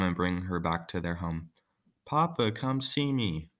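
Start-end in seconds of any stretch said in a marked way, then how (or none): 2.0-3.5 high, slow joyful cry to her father; excited exclaim. Acted. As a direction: call out to Papa with delight. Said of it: "Oksana exclaimed".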